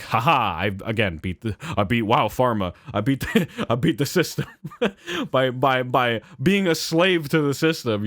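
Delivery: a hint of smug gloating with laughs; douchey gloating. Boasting to himself about beating the system, mild gloat. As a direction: gloat lightly, chuckling at your own cleverness. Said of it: "frickin' douchey, like".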